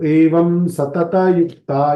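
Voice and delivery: slow "सतत" with its final a voiced; taught recitation. Shown as a demonstration. Teacher showing Gita recitation, "सतत" said sa-ta-ta. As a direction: give every syllable of "सतत" its vowel. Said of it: "हम सिखाते हैं".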